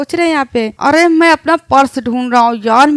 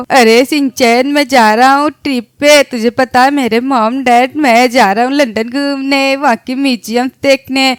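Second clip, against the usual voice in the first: loud excited bragging; 4 dB louder than usual. Acted. Bragging loudly to friend.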